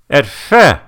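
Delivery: high, slow, loud mock mumble; garbled high-pitched mom voice; mumbling mom. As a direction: imitate a mom talking through a face mask. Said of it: "she's kind of mumbling".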